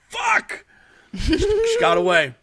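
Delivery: a sudden high curse, loud and sharp; frustrated yell. Retold or imitated. Death cursing as the old lady escapes, frustrated high yell. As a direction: spit it out like a foiled reaper. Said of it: "he gets frustrated".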